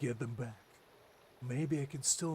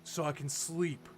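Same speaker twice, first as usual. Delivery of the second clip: dry, mocking retort, louder; sarcastic; 2 semitones higher, 5 dB louder than usual. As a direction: sneer out each request. Voicing a sarcastic NPC reply.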